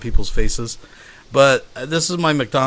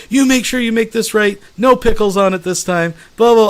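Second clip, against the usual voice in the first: higher-pitched mock scolding of a teen; retold angry berating; 9 semitones higher, 5 dB louder than usual. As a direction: imitate a manager chewing out a kid. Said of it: "starts yelling and berating the teenager".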